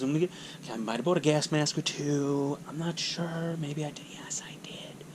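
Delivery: fading from soft voice into a whisper; sheepish confession. Acted. Prepper admitting he bought gas masks, sheepish fade to whisper. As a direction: trail down to a guilty little whisper.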